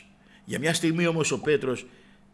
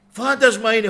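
high, loud cry of fear; frightened shout; 9 semitones higher, 12 dB louder than usual. Retold or imitated. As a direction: shout it like terrified disciples. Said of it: "φωνάζανε".

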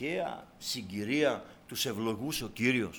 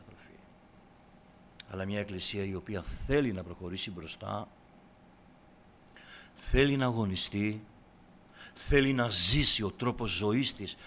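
normal talking voice

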